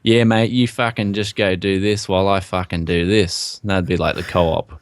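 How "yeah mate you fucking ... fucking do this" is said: laid-back Aussie. Retold or imitated. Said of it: "in Australia, it'd be like".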